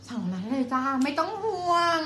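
a hint of a TV host's high sell; มดดำ-like voice. Real, not acted. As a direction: pitch it up, stretching the last word. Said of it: "เสียงกูชักจะเหมือนมดดำ".

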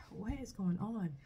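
asking it in a startled, nervous voice. Retold or imitated. Woman retelling her dream, nervous and startled. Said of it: "I'm getting nervous".

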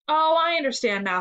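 put-on a child's cheery "now I get it"; cheerful. A narrator's reading. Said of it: "said Amy cheerily".

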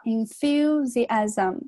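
"enthusiasm" with the stress on THU; marked word stress. Shown as a demonstration. Teacher points out word stress, "enthusiasm" stressed on THU. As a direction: lean on the second syllable of "enthusiasm". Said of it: "注意一下这个单词重音在这儿".

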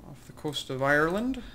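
put-on half-hearted Irish accent, soon abandoned; botched, slightly Irish accent; attempted Irish accent. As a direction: try a faint Irish lilt. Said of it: "trying to do an Irish accent there".

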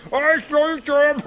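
high, gleeful singsong taunt with a laugh; mocking taunt. A narrator's reading. Jack taunts the poor family over the stolen turnip, mocking. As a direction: jeer at them like a smug thief. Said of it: "he starts mocking the family".

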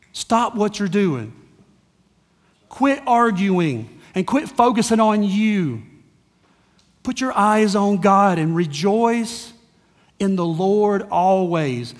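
slow, weighted imitated orders with long pauses; Paul's stern command. Fed-up apostle to arguing church, slow stern orders. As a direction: press each instruction home deliberately. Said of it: "Paul goes off".

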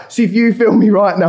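doing his voice. Retold or imitated. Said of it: "I'm not gonna keep doing the voice".

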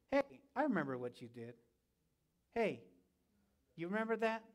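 mildly hushed, needling imitation of the enemy; insinuating whispers. The enemy whispers reminders to the forgiven believer, insinuating and hushed. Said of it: "there comes the whispers".

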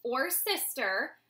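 slow, sighing mother; mother's slow, gentle sigh. Acted. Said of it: "his mother sighed".

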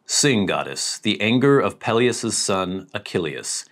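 regal voice. Shown as a demonstration. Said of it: "me get my regal voice here".

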